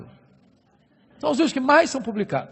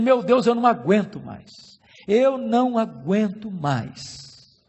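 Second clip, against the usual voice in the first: weary desperate prayer; 2 semitones lower than usual. Retold or imitated.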